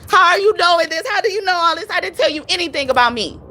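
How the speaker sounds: high, frantic mock client asking; mock frantic quote. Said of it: "She screams, says".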